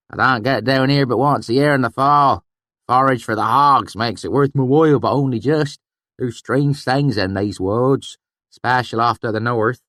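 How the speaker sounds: put-on high, loud old country voice; rustic swineherd. A narrator's reading. Swineherd warning the narrator, high and loud. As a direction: play the swineherd warning a stranger. Swineherd Sheem explains the woods.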